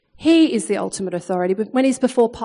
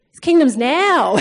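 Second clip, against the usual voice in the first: louder, slow, breaking into a laugh; emphatic repeat; 4 semitones higher, 6 dB louder, slower than usual. Retold or imitated. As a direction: hammer it home, half laughing.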